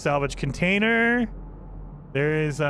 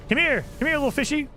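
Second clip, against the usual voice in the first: calling a pet; 8 semitones higher, faster than usual. Real, not acted. Calling a fish to come.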